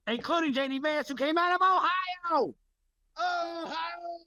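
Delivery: mocking high voice. Mocking voice about J D Vance.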